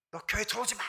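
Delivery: retold angry yell. Pastor retelling shouting at a drunk intruder, mock angry yell. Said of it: "저도 같이 막 화를 냈어요".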